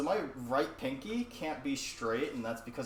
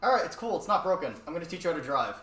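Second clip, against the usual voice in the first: brisk mom; 4 semitones higher, 5 dB louder, faster than usual. Retold or imitated. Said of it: "And she's just like".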